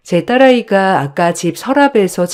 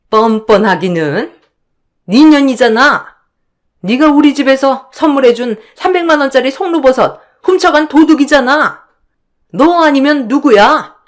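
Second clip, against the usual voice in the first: higher, contemptuous accusing voice; scornful sister-in-law; 7 semitones higher, 3 dB louder than usual. Acted. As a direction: sneer down at the younger in-law. 형님 voiced again. (높고 비아냥대는 형님 목소리)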